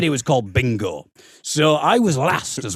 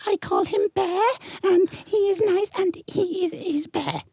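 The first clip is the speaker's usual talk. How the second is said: put-on high, small child voice reciting; squeaky little kid droning through it; mock child presenter; mimicking a bored child; 3 dB quieter than usual. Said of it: "it'd be like".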